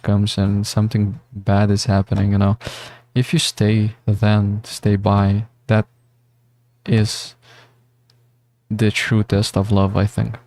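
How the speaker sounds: talking like you've had a few. Real, not acted. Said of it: "I sound like a fucking drunk person".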